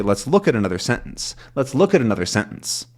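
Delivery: "look" punched, "another sentence" lighter; stress on look. Shown as a demonstration. Teacher offering learners another option, stress on look. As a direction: lean hard on "look". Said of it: "just as easily say".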